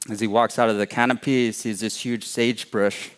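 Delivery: ordinary delivery, nothing marked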